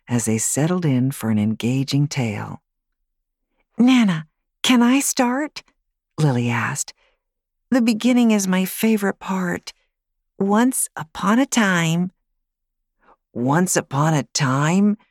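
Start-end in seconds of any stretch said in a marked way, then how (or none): 3.8-12.1 put-on high child voice, thrilled to start; a small girl who loves the opening line; eager little girl. Girl eager to begin story. 13.3-15.0 slow, flat-toned mocking echo from a bored boy; unenthused echo. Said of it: "clearly not enthused".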